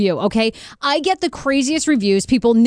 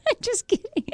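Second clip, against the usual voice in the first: laughing it off; 12 semitones higher, 7 dB quieter than usual. Real, not acted. Laughing while taking it back.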